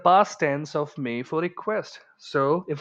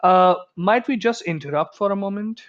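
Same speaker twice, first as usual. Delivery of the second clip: higher-pitched, courteous interruption; very polite; 5 semitones higher than usual. Shown as a demonstration. Asking seniors to let you interrupt, very politely. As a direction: interrupt very politely, rising at the end. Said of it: "Very polite request".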